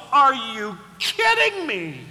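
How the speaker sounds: mock-exasperated parent. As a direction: scold the child. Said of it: "and the parent goes".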